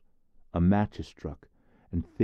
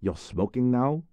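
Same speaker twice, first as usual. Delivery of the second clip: higher, taken-aback question; startled; 7 semitones higher than usual. Acted. Jesper startled to see Therese smoking, high surprised question. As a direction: caught off guard by his friend. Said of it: "asked Jesper, startled".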